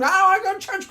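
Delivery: put-on high, loud childish whine; loud bratty kid refusing church; whiny kid protest. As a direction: play a kid being dragged to church, whining. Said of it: "kicking and screaming".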